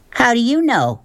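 put-on urgent young girl pleading; eager girl voice. A narrator's reading. Voices Sistine.

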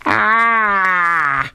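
a token scream, not the real thing; mild mock scream. Reader giving a small stand-in for the comic's scream. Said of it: "it begins with a scream, so I'll, I'll spare you that".

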